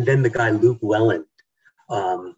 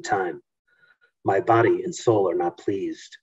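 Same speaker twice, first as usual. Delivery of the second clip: measured, dramatic reading of a ghost story; story narration. Acted. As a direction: read it like the opening of a haunting novel. Author reads her book excerpt.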